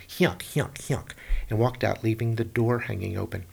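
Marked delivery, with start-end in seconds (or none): 0.1-1.1 mock wicked witch cackle; hammed-up evil chuckle; wicked laugh. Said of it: "laughed a wicked laugh".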